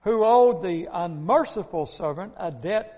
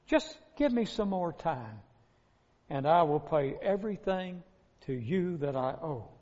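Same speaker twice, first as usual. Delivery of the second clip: pleading debtor; 4 semitones lower, 8 dB quieter than usual. A narrator's reading. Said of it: "begged for mercy".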